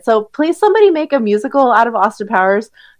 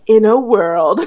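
movie trailer voice; slower than usual. Pretend. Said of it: "No, just kidding".

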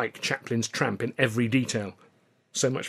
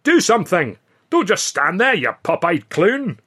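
mock the bird at full voice; loud taunt; 8 semitones higher, 8 dB louder than usual. A narrator's reading. Billy taunting the ostrich, loud jeer.

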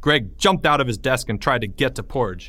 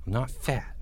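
muttered; 7 dB quieter than usual. A narrator's reading. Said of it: "Porge muttered".

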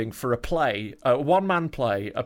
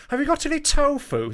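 timid high voice; 13 semitones higher than usual. Retold or imitated. Acting himself asking for tofu.

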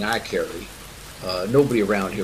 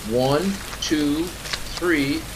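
calling the count; 4 semitones higher, much slower than usual. Acted. Counting off a group lift.

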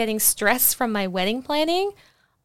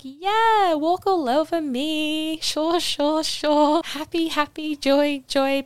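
much higher, airy people-pleaser voice; mock pushover voice; 6 semitones higher, slower than usual. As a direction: play your former doormat self, eager to agree. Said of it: "I was just sort of like".

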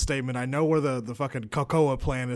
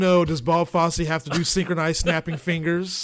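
mock dismay. Mocking Fosse's complaint.

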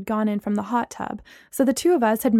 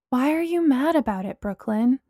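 kind; 2 semitones higher than usual. Acted. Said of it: "Bree asked me kindly".

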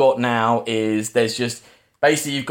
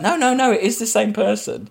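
retold insistence; 9 semitones higher than usual. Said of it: "trying to prove to Fiona".

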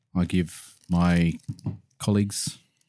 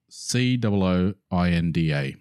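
spelling out. Shown as a demonstration. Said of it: "you wanna spell that out".

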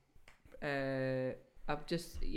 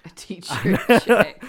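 laughing through the words; slow, laughing loudly; 13 dB louder, much slower than usual. Real, not acted. Mocking teacher check phrase.

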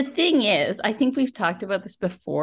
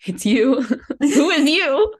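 shocked outburst; 4 semitones higher, 5 dB louder, slower than usual. Retold or imitated. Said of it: "And you're like".

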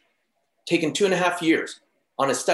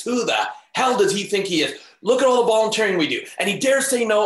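higher-pitched indignant venting; retold angry rant; 4 semitones higher than usual. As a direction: re-enact letting loose in outrage. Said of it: "I just let loose".

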